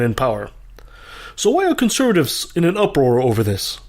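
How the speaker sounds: scripted opinion piece, steady and pointed; editorial rant. Acted. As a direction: read it like a radio editorial.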